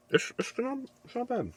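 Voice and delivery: tiny falsetto food critic; high squeaky voice. Pretend. Mock high voice judging food.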